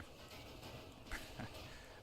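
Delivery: soft, breathy laugh; quiet chuckle. Real, not acted. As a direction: chuckle under your breath. Laughs about plans for today.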